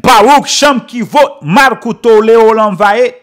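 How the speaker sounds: retold shout. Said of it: "Joshua shouted out".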